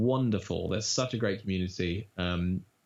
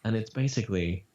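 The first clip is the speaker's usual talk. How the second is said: silky lizard voice. Shown as a demonstration. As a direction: purr it out like a seductive lizard. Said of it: "the narrator describes him as".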